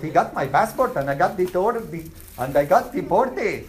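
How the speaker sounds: put-on joking Pakistani accent; lightly put-on Pakistani accent. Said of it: "Pakistani accent".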